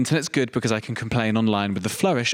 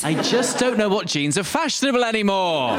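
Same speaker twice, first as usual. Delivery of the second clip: higher, fretful confused tone; worried middle-aged voice; 7 semitones higher than usual. Acted. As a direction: sound lost and out of touch. Thirty-five-year-old voiced.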